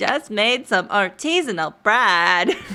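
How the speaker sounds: Californian text-to-speech voice. Imitating the TikTok default voice lady: imitating TikTok default voice. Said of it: "imitation's a little bit better than mine".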